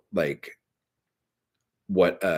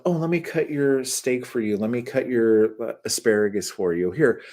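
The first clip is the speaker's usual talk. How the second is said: lightly voiced fussing helper, pitched up on the protests; insistent offer, imitating a doting older friend; Harry Dean; 4 semitones higher than usual. Harry Dean offering to cut the wife's food, gently insistent. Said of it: "he was always like".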